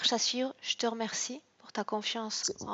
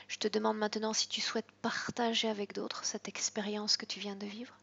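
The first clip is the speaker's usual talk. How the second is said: whispered hypnosis. Acted. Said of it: "hypnotic guidance to client".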